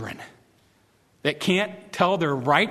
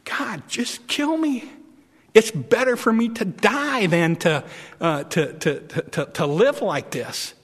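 despairing plea; 4 semitones higher than usual. Acted. Preacher as Jonah begging God, high whine. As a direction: wail it to God, worn out by the heat.

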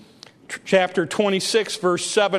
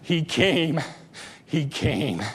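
low, soft repeat; hushed reverence; 6 semitones lower, 6 dB quieter, slower than usual. Real, not acted. Preacher repeating the good news, low and hushed. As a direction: drop low and let it sink in.

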